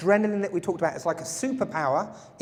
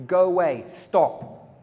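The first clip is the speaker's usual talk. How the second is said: barked orders; 6 dB louder, much slower than usual. Shown as a demonstration. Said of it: "O is order".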